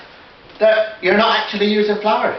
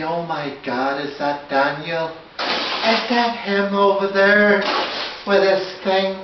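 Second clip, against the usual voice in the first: a singer; slower than usual. Retold or imitated. DIY man imitating people spotting the singer, slow crooner-style voice. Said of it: "like, a Daniel O'Donnell kind of scenario".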